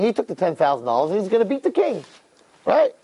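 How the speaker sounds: high, sly accusing voice; scheming accuser. Retold or imitated.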